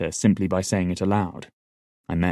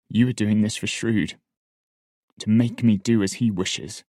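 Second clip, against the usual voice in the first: accusing; 3 semitones higher than usual. A narrator's reading. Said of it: "I accused Shade".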